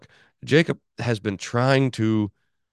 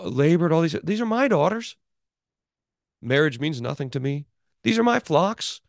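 higher, hammed-up protest of a self-righteous man; indignant Laban; 5 semitones higher than usual. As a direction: play a hypocrite denying all blame, lightly voiced. Voicing Laban's self-justification.

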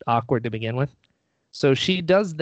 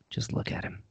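whispered under the breath like a lurking creeper; a sneaky fan's whisper; creepy whisper; 10 dB quieter than usual. Retold or imitated. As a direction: hush it as if spying from across the room. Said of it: "like a creeper".

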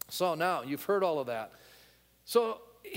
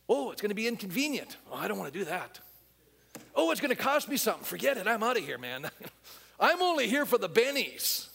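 high, complaining mock whine; whiny quitter; 4 semitones higher than usual. Sketching a fair-weather Christian, hammed-up whine. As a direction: play the self-serving churchgoer bailing out. Mocking a selfish churchgoer.

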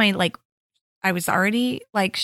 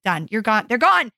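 short-tempered. Retold or imitated. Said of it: "so short and, like, tempered".

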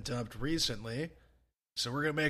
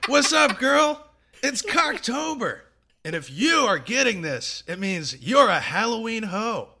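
higher, louder, sassy party voice; spooky chain-letter voice; 6 semitones higher, 5 dB louder than usual. Acted. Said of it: "bringing the spooky energy, uh, from that intro".

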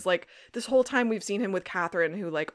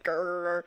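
small playful growl, held out; mock growl; 3 semitones lower than usual. Host imitating Damon bristling at Rose, playful growl. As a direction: growl it lightly.

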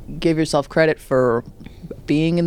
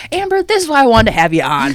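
excited gushing; 5 semitones higher, 7 dB louder than usual. Real, not acted. Excited host gushing at guest.

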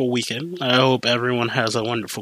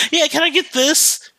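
higher-pitched customer jumping in; mock pushy customer; 13 semitones higher than usual. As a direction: imitate an impatient customer, pitched up. Acted customer cutting in to order.

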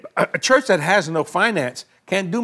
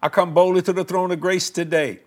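earnest spoken prayer to Father. Acted. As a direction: pray boldly for the viewers. Leads a prayer on air.

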